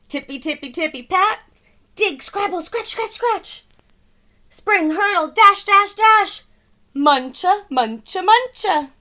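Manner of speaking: high and loud, bouncy; busy bunnies. Acted. Bunnies digging under the fence, high and excited. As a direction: scamper through it.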